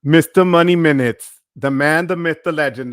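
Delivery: loud, showman's build-up; hyping a fellow creator to the chat, loud; hype introduction. Real, not acted. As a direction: announce him like a champion. Hyping up Mister Money Minutes.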